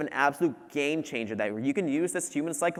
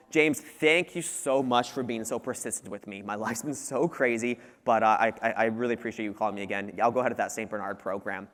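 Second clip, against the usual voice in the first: imitated grateful customer; 5 semitones lower than usual. Busy customer thanking a persistent salesman, imitated gratitude. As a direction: ease into a sincere, slightly weary thank-you.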